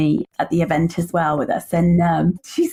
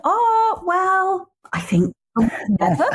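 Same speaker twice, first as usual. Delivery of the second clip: said nicely; 11 semitones higher, slower than usual. Shown as a demonstration. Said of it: "No, I said it really nicely".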